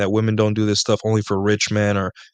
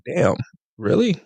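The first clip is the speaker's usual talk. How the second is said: mild disbelief, pitch jumping on the last word; retold shock; 4 semitones higher than usual. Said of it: "shocked, like".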